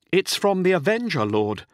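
high, loud report to a superior; urgent controller. A narrator's reading. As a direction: pitch it high with alarm.

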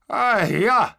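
high, loud whoop; cheering. A narrator's reading. Trooper cheering at objects in the sky, loud cheer. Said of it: "Andre cheered".

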